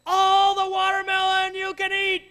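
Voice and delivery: high, loud, slow gleeful call; welcoming kids to a watermelon feast; joyful shout. Retold or imitated. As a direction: throw the gates open with delight. Counselors cheering kids on.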